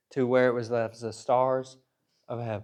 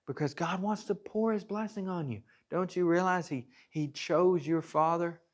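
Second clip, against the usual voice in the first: Moses begging. Retold or imitated. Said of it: "he's just begging them".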